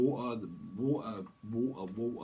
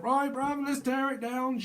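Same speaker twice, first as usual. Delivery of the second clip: much higher, louder cocky voice; cocky builder; 13 semitones higher, 6 dB louder, slower than usual. Acted. Psychic acts a builder tearing the house down, high and cocky. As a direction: play a cocky lad tearing it down. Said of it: "you're like".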